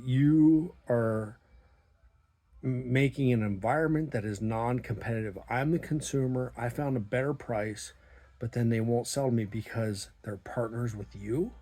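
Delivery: loud, heated rant up in his face; angry confrontation. Retold or imitated. Customer yelling at the propane boss over unfair prices, angry loud rant. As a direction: jab the words at him, furious. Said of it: "I was right in his freaking face".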